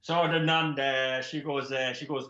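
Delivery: put-on Irish accent sliding into Geordie; wobbly Irish-Geordie storytelling; accidental Geordie accent. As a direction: attempt Irish, land in Geordie. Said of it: "She's Geordie now".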